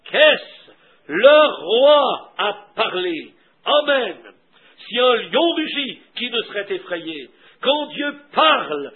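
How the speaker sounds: drawn-out, punched key words with falling ends; forceful preaching. Acted. Preacher proclaiming that the king has spoken, forceful. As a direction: proclaim it in slow, swelling bursts.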